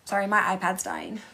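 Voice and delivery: ordinary delivery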